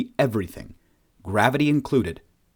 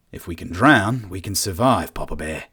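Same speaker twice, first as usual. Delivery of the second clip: forced optimism; 3 semitones lower than usual. Acted. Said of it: "forcing some sort of optimism into his voice".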